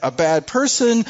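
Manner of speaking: mock accusing voice of Satan; accuser's voice. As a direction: hurl each charge at the listener. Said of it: "He's gonna say".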